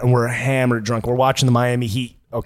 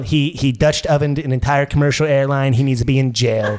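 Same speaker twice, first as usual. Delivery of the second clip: Donald Trump. Acted. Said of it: "I got Trump and Fat Bastard".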